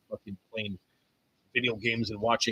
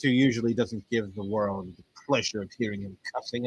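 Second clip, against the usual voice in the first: normal talking voice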